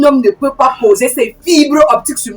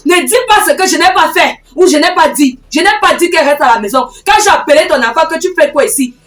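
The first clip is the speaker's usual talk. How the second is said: mildly raised, insistent self-defence; heated protest; 3 semitones higher than usual. Acted. Woman denying she kept the girl home, heatedly protesting. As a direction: argue back with some heat. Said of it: "tu arrêtes de me crier dessus".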